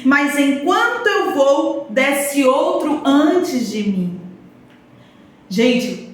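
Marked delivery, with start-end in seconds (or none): 0.0-4.2 pleading sick man. Acted.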